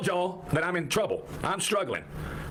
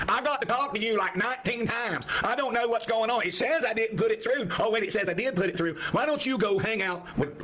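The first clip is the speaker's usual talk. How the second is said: real fed-up tirade, pitched up; exasperated rant; 6 semitones higher than usual. Real, not acted. Streamer scolding Bo Sweeney in the comments, exasperated. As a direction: tell off a pest in a higher voice.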